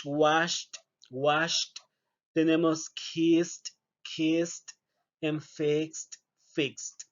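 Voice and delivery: "washed", "kissed", "fixed" each ending in T; slow drill of T endings; teacher drilling the T ending. Shown as a demonstration. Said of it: "como una letra T".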